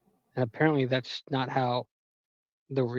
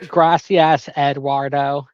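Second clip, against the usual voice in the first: exaggerated thanks; 8 dB louder, much slower than usual. Reenacting thanks to deli guy.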